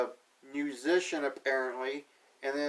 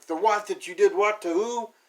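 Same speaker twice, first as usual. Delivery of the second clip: high, loud disbelieving double take; raised, louder stunned "what?"; incredulous surprise; 4 semitones higher, 5 dB louder than usual. Retold or imitated. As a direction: sputter it out in shocked disbelief. Picard hears bodies were revived.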